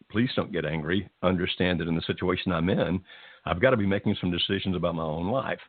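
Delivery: calm him down gently, without pushing; gentle, calming. Shown as a demonstration. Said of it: "very gently say".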